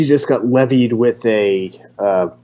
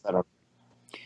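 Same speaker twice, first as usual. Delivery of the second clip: whispering; 5 semitones lower, 13 dB quieter, slower than usual. Real, not acted. Quiet aside after a joke.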